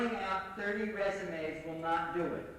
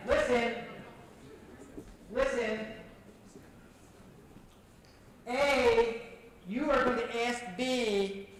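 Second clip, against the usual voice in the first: calling the room to order; slower than usual. Real, not acted. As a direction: command the room's attention.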